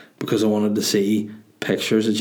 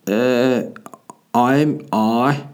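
lightly put-on ghost character; a hint of a casual ghost's voice; 2 semitones higher, much slower than usual. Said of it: "And then the ghost was like".

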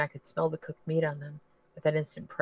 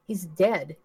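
frantic; 3 semitones higher, 4 dB louder than usual. Acted. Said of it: "Cheryl's voice was near frantic".

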